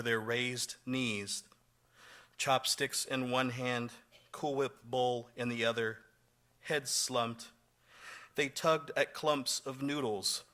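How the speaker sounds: measured poem recital, pauses between phrases; poetry reading. Acted. Poet reading to an audience about refugees eating, measured poetry reading. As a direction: read each image deliberately, pausing after it. Reads own poem aloud.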